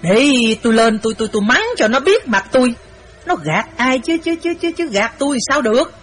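angry stammering rant; sputtering anger. Acted. Wife sputtering to husband about the cheating girl, angry. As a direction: fume and stumble over the words. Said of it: "miệng nói láp giáp".

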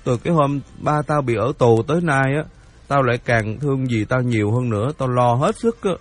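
lightly voiced boy pleading his case; aggrieved boy Hiệp. (cậu bé phân trần ấm ức)

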